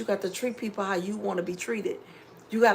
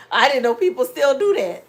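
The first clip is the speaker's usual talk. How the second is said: louder, laughing through the words; 5 semitones higher, 8 dB louder than usual. Real, not acted. Streamer laughing at a viewer's McDonald's story. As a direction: laugh it out in disbelief.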